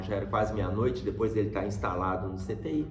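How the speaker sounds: normal talking voice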